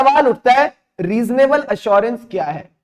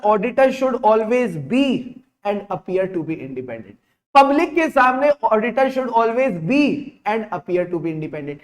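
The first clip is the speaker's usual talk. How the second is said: slow dictation; slower than usual. Shown as a demonstration. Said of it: "dictating definition slowly".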